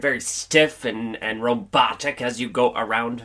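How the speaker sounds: stiff robotic monotone. Acted. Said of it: "Apparently that's my robot voice".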